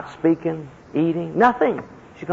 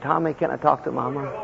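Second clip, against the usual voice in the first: soft father on phone; 7 dB quieter than usual. Retold or imitated.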